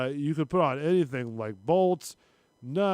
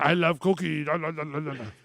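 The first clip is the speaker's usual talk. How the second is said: Cookie Monster. Pretend. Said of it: "the Cookie Monster noise".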